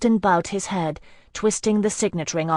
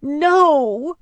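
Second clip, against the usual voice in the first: a loud, much higher shouted "No!"; 10 semitones higher, 8 dB louder than usual. Acted. Heroine shouting her refusal at Hyacinth's sacrifice. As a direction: hurl it out in despair. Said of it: "then shouted it".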